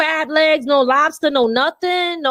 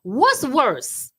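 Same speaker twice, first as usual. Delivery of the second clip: pause, then a knowing "What's worse?"; dramatic punchline question; slower than usual. Shown as a demonstration. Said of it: "Here's what I'm gonna say".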